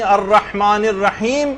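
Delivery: الرحمن الرحیم with the last م closed, then a pause; stopping on sukun. Shown as a demonstration. Teacher shows reading with a pause, deliberate recitation. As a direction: end الرحمن الرحیم on a held "m", no vowel after. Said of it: "اگر آپ یوں پڑھ رہی ہیں".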